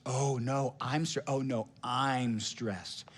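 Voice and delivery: drawn-out, very slow and soft insistence; mock one-upping. Trumping a friend's stress, slow hammed-up insistence. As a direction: stretch it to out-suffer the other. Comparison game over who's stressed.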